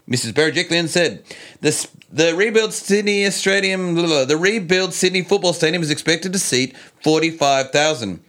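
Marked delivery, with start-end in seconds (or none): 1.6-8.2 lightly voiced politician quote; Gladys impression. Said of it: "my best impersonation of Gladys".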